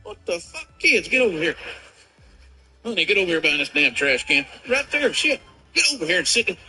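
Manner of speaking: high, frantic hissed orders to the family; dad hustling his kids behind a trash can in panic; panicked dad. Pretend. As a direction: panic while herding kids behind cover.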